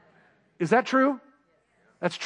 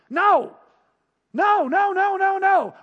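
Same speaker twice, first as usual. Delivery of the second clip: higher and louder, forceful denial; emphatic loud no; 10 semitones higher, 4 dB louder, slower than usual. Real, not acted. Preacher rejects the idea of a grudging God, emphatically. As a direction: shut the wrong idea down hard.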